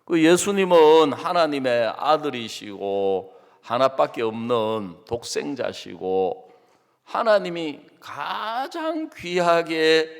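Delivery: normal talking voice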